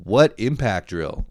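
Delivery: baffled comeback to the gift; incredulous retort. Retold or imitated. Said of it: "It's like".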